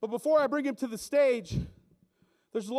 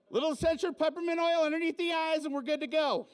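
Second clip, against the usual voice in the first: higher, put-on voice of a crunchy hippie leader; assistant Subi leader; 6 semitones higher than usual. Hippie protest leader to the riot team, in a higher put-on voice. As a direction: play the earnest hippie with the gluten antidote. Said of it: "assistant Subi leader would come out".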